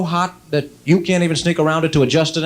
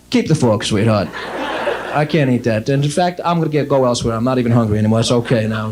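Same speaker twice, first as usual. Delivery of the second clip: disgusted refusal; 7 semitones lower than usual. Retold or imitated. Disgusted husband handing back the fork.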